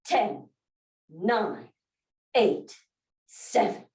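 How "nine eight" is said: normal talking voice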